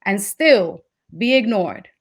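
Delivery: slow, deliberate poem reading; poetry recital. Acted. Poet finishing a piece for students, measured recital. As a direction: let the closing words fall away slowly.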